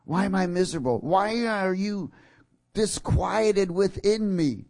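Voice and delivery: high, slow drawn-out lament; slow anguish. Retold or imitated. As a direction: stretch out disquieted in pain. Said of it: "See, your soul".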